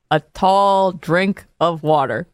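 put-on slow old-timey movie voice; old Hollywood star. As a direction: drawl it like a 1940s film star. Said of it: "What are you, from the nineteen sixties?".

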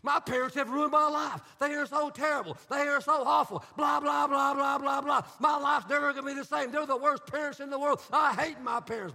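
a hammed-up teen venting about parents; whiny teen complaint. Pastor mimicking a high school student ranting, mock outrage. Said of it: "start complaining about how they've been wronged".

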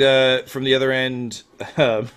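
ordinary talk, nothing marked

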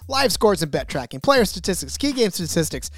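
rushing the list on one breath; running out of air mid-list; all in one breath. Real, not acted. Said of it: "I can't even fit it all in one breath".

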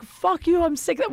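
high, exasperated imitation of a fed-up boyfriend; mock angry comeback. Boyfriend answering her in a huge fight, mock angry comeback.

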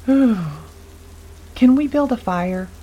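slow, high, shivering from cold; chattering teeth. A narrator's reading. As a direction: teeth chattering, soaked and freezing. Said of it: "through chattering teeth".

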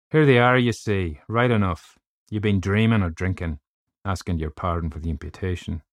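hint of a vindicated Irish doctor, starting loud; lightly voiced Irish doctor. Doctor showing narrator the figures, lightly voiced Irish triumph. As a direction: lightly play the doctor proved right, then easing off.

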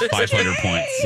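high, announcer-style points call; mock game show announcement; game show host. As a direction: award the points like a quiz host. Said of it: "game show bonus".

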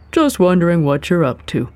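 friendly and easygoing; amiable. A narrator's reading. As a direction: ask casually, with a friendly tone. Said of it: "one of the men said amiably".

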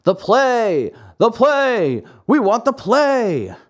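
high, loud demanding chant; angry yelling crowd. A narrator's reading. The angry audience yells for the play to go on, loud and demanding. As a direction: stamp out each demand. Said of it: "became angry and began to yell".

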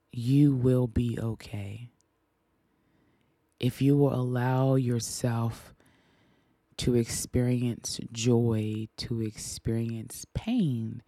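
slow, deliberate words of comfort; slow heartfelt reassurance to the grieving; sincere reassurance. Real, not acted. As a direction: tell a grieving listener they'll be okay. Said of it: "What I will say to anyone".

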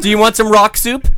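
a silly high cartoon character. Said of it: "This is a character I put on".

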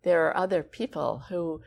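measured, emphatic public scolding; understated stern telling-off. Retold or imitated. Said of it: "she said it so sternly".

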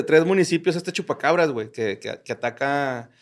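hiccups cutting into the sentence. Real, not acted. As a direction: stumble through it with hiccups. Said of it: "Te los pegué".

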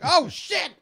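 high, loud yell of recognition; excited outburst. Retold or imitated. Retelling hearing the song in the trailer, excited yell. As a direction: blurt it out high, laughing, retelling the moment.

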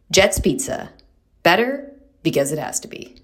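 upbeat sponsor read, crisp and clear. Acted. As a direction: sell the pizza like a radio spot. Reads sponsor ad.

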